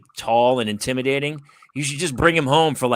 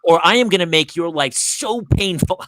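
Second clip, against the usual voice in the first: angry threat; 4 semitones higher, 4 dB louder than usual. Retold or imitated. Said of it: "I'll just lose it".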